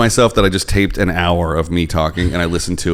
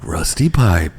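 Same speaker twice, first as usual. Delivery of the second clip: perfume ad voice; slower than usual. Pretend. Mock perfume ad again.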